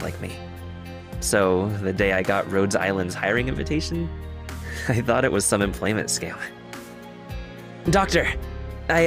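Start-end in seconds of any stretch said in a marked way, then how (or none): 4.1-4.8 short, quiet laugh to oneself; a light, low-key chuckle; soft chuckle. Acted. New hire recalling the job invitation, soft chuckle.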